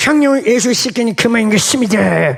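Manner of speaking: Gyeongsang dialect, jutting jaw. Show listeners the voice you practised at home, jaw jutted out, Gyeongsang dialect. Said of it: "턱을 앞턱을 이렇게 뺀 상태에서 경상도 사투리를 쓰면 나온다는 거야".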